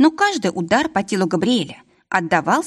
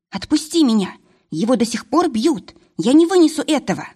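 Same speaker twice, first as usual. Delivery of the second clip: desperate plea; 5 semitones higher than usual. Acted. Varvara begging to be released.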